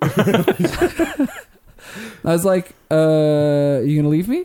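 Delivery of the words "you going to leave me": totally sarcastic, acted-out mock delivery. Retelling an argument with a woman, acting out a totally sarcastic question. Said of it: "Just totally sarcastic like that".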